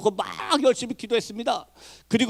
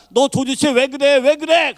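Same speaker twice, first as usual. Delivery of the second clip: high, raised questioning, pressing hard; retold urgent demand; 6 semitones higher, 4 dB louder, slower than usual. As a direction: demand an answer, slowing on the first question. Retold urgent questioning of afflicted woman. (다급하게 다그치는 재연)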